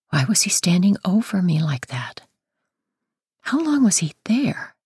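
breathless unvoiced whisper; frightened whisper. A narrator's reading. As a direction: whisper it in fear. Frightened inner thoughts.

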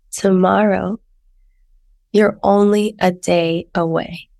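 lyrics recited plainly; spoken lyrics. Acted. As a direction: read the lyrics out. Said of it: "Here's the lyrics".

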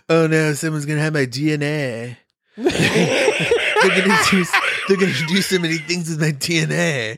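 hammed-up paranoid whine, laughing; mock his worried voice; mocking partner. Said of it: "You're like".

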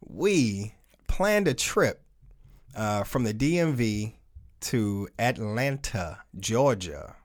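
slow, soft seductive voice, whispered ending; sexy voice. Pretend. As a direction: draw it out low and seductive. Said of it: "I'm gonna put the sexy voice on for you".

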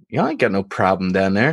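put-on Jerome's Deep South accent. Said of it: "that's the accent".

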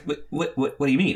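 imitating a confused stammer; taken-aback questioning; baffled stammer. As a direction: trip over the first word. Acts baffled, backpedalling man.

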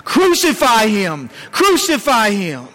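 drawn-out mock shout, falling away; retold crowd shout. Crowd before Pilate demanding crucifixion, retold shout. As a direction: lightly imitate a chanting mob's cry. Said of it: "in that crowd before Pilate shouting".

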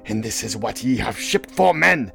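rousing, high, loud oratory; impassioned captain's rallying shout; Ahab. Acted. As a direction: whip the crew up for the chase. Ahab rousing crew to the chase.

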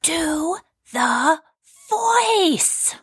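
"Do... the... voice" with a pause after each word; insistent, spaced-out "Do the voice"; word-by-word demand. Acted. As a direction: spell out "Do the voice" slowly, "voice" pitched high.

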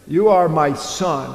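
"You are my Son" said slowly, leaning on "are"; slow emphatic reading. Shown as a demonstration. Preacher slowly stressing the Father's words to Jesus. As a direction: lay each word down with weight. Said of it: "this is very particular".

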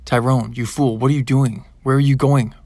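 loud angry roar; roaring grandfather scolding. A narrator's reading. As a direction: roar it at him, furious grandfather. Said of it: "roared Opa".

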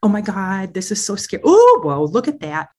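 gushing, fussy sympathy with a loud squeal; mock a coddling sergeant who fusses over every fear; hammed-up coddling voice, climbing into a squeal; over-soothing validator. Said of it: "you'd be talking like this".

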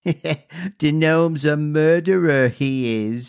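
mock his little brother; cruel taunt. A narrator's reading.

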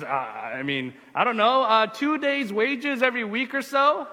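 hesitant start climbing to a high questioning pitch; startled. Acted. Startled guard answering an unexpected question about his pay, flustered. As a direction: fumble for an answer, then guess upward. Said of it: "he's startled".

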